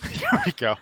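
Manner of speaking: high squeaky dinosaur call; a squeaky little roar attempt; tiny squeaky trying to roar. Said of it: "so it's something like this?".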